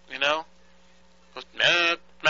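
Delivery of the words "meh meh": nasal meh meh beeps; imitated busy signal. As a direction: mimic a broken busy tone. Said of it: "it goes like this".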